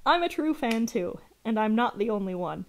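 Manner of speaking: full stop after "too"; read as two sentences. Shown as a demonstration. Streamer showing the writer's bad punctuation, split in two. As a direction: close off "I'm a true fan too", then restart on "and". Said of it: "That's two sentences".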